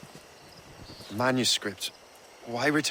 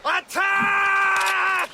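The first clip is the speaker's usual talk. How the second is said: battle shout. Acted. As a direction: yell the order over the fighting. Battle begins, order to attack.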